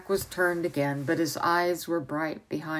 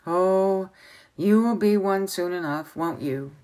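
put-on a touch louder, impatient old man; 2 semitones higher, 5 dB louder than usual. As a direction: push the boy for an answer. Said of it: "asked the old man impatiently".

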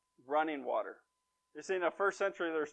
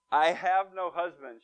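slow, firm, louder denial; fighting back; 5 dB louder, slower than usual. Acted. Woman puts up her guard with Jesus, fighting back. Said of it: "she starts to fight back".

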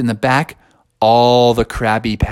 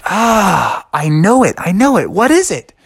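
mounting frustrated frog voice, pitched up; racking his brain; 6 semitones higher, 3 dB louder than usual. Acted. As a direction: climb higher as memory fails you. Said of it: "he was like".

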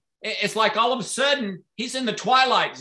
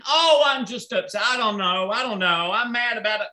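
put-on upset kid; 3 semitones higher than usual.

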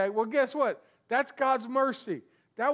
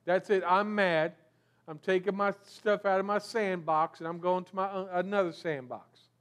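put-on sulky child; 3 semitones lower than usual. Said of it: "just like little kids playing".

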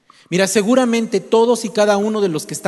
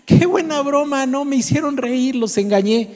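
high, laughing prankster's gloat; mock laughing; 7 semitones higher than usual. Shepherd boy to the people he fooled, mock laughing. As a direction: laugh it out high, then ease down. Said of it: "Pedro se empieza a reír".

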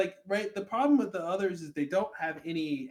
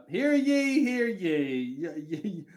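town crier; 4 dB louder, much slower than usual. Pretend. Mock proclamation to the island.

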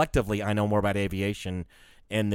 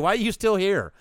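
mock incredulous; 9 semitones higher, 4 dB louder than usual. Repeats the mock line after laughing.

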